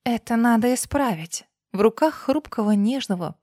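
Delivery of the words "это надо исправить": a different voice. Acted. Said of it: "совсем другим голосом продолжила".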